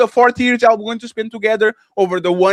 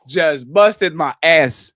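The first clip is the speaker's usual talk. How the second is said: low, put-on voice of a worn-out wife; 3 semitones lower, 6 dB louder than usual. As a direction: play the tired wife quitting. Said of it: "And she give me six and says".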